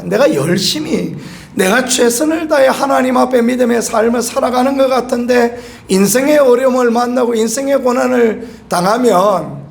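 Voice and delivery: ordinary talk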